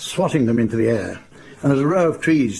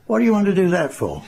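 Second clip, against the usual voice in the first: baffled complaint; 7 semitones higher than usual. Retold or imitated.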